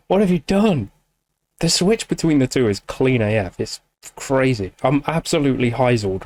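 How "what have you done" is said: delighted laughing repeat of the question; laughing disbelief. Real, not acted.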